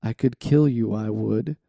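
a lightly put-on dramatic reading voice; motivation voice. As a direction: read the lyrics like a hammed-up pep talk, only slightly voiced. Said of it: "I'll read it in this voice".

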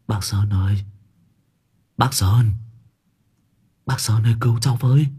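put-on desperate wailing boy, rising to shrieks; wailing plea. A narrator's reading. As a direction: wail for help from the coffin. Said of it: "tiếng rên rỉ thê lương".

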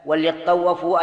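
"وليطوفوا" said wal-yattawwafu; no vowel after the l in "وليطوفوا"; vowelless lam. Shown as a demonstration. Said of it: "اللام ساكنة".

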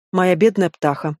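slow, mock-tearful lament; milk the tears for him, slowly; fake sob. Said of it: "всхлипнула".

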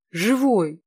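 sudden loud exclamation; surprised cry. Acted. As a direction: burst out, startled he is alive. Finder exclaims he's alive. (громкий удивлённый возглас)

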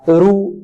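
رو with a light ر; thin raa. Shown as a demonstration. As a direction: say رو keeping the ر thin. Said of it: "مرققة". (رو براء مرققة)

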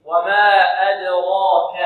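slow, deliberate "أدراك" with a full, heavy ر; careful recitation. Shown as a demonstration. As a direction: draw out "وما أدراك", keeping the د light and the ر heavy. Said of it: "لا بد أن نفخم". (تلاوة تعليمية متأنية بتفخيم الراء في "أدراك")

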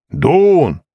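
high call across the empty hall. Acted. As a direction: shout his name to find him. Searching crowd calls for Doon.

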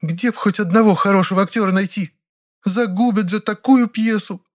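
put-on high, plaintive, slowing childish complaint; upset childlike whine. A narrator's reading. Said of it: "расстроенным детским голосом пожаловалась". (расстроенный детский голос)

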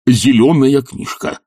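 slow, high, emphatic order; impatient order. Acted. Professor relays the order angrily.

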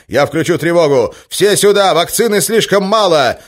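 high, loud shout. Acted. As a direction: call out over the crowd. Ivan shouting over the crush.

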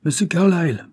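father mocking his lawyer's name; scornful repeat. A narrator's reading. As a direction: spit out the name "Monsieur Carlyle" with contempt. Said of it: "répéta-t-il".

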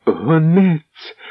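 high joyful cry; joyful exclamation. Acted. Svitozara spotting the messenger from the window, high joyful cry. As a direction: burst out with delight at the messenger. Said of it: "радісно вигукнула".

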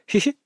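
horror host giggle; sinister giggle. A narrator's reading. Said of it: "зловеще хихикнула она".

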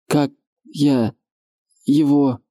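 a stranger's hollow voice; lightly shifted dazed voice; disguised deep voice. A narrator's reading. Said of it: "каким-то чужим голосом".

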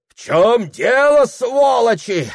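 high, loud, slow gruff demand; police officer demanding answers; rude officer. Acted. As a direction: bark at the crowd.

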